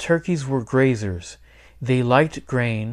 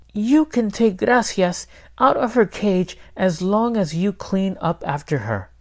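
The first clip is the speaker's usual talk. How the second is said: higher-pitched grandmother character voice; grandmother laying down terms; 7 semitones higher than usual. Acted. Abuela tells the boy the rule for the cage, instructing. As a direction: voice a grandmother setting a condition.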